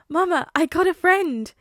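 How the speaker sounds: put-on high, slow, loud child voice; proud small boy telling mama; delighted little boy. A narrator's reading. Boy tells his mother he made a friend, delighted child.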